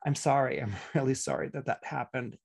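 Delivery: mean every word, gently; sincere apology. Shown as a demonstration. Astrologer contrasting a real apology with a fake one, soft and sincere. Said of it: "can you hear the difference?".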